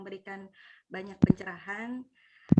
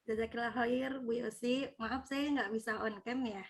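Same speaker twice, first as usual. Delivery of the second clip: very faint, distant voice; barely audible; 2 semitones higher, 5 dB quieter than usual. Real, not acted. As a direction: speak so softly it barely carries. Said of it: "Suaranya kecil banget".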